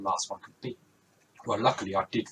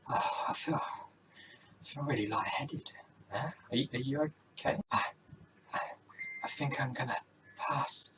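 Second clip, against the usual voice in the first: fading faint; 2 semitones higher, 6 dB quieter than usual. Acted. Rosie about to faint.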